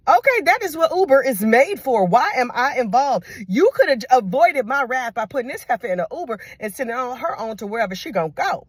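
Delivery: sassy disbelief at being involved; exasperated auntie. Retold or imitated. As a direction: auntie scolding her nephew about Uber. Aunt scolding nephew.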